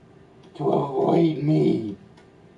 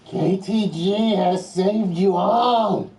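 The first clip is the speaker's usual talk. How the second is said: slow, grand villain announcement; menacing evil villain; 5 semitones higher, slower than usual. Acted. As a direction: boom it out like Death.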